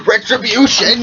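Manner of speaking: very high, loud war shout; battle cry. Acted. Harvey swinging a potato sack at the thief, shrieking. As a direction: scream it as you swing.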